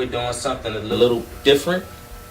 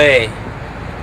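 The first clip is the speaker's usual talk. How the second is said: Jolet said with an African accent. Real, not acted. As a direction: say the name in his African accent. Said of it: "In his African accent".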